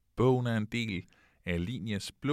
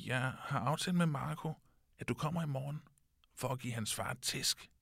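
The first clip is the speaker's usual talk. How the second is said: lightly voiced boy, a bit higher and proud; boastful little boy; 5 semitones higher than usual. A lightly voiced boy bragging to his friend about his father. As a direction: brag like a small boy about his dad. Child tells dad the plan.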